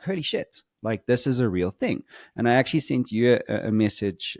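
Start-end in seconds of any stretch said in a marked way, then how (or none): 0.0-2.0 amazed realization. Retold or imitated. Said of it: "now I'm feeling like".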